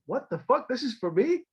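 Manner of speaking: high, stunned what-the-hell; shocked disbelief. Retold or imitated. Retelling armed men boarding for him, shocked. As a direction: caught off guard, voice jumps up.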